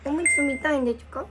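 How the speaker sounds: put-on baby talk.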